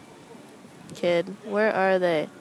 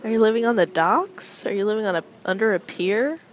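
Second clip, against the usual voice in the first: higher, mock-scolding grandma voice; imitating grandma; 3 semitones higher than usual. Grandma scolding grandson about holey shoes, higher mock scold. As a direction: scold like a fussy grandma over worn shoes. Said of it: "she's like".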